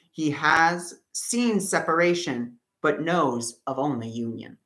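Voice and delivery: slow, measured reading aloud; reading a spiritual text. Acted. Reading a passage from the course to viewers, slow and measured. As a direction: read it as a message someone needs to hear.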